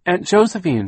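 high, loud searching call, falling at the end. A narrator's reading. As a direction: call out for a missing aunt. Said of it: "she was calling out Aunt Josephine's name".

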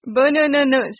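Bunununus said as one flowing word; pronunciation demo. Shown as a demonstration. Author showing the title's pronunciation, demonstrating it whole. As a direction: say Bunununus whole, lifted in pitch. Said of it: "explained how to pronounce the title".

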